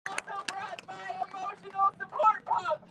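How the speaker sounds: high, loud rally hype; excited shout. Real, not acted. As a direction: pump up the crowd. Drag performer hypes rally crowd.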